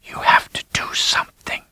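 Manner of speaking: urgent whispered plea; desperate dying whisper. A narrator's reading. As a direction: beg in a bare whisper. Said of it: "Her voice was just a whisper".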